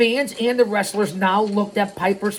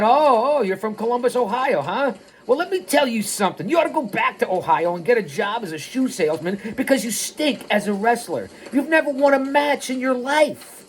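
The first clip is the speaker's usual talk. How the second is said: higher-pitched mock tirade; acted put-down; 5 semitones higher than usual. Piper turning on Frankie, mildly scornful put-down. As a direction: lay into him, pitched up, building to the last line.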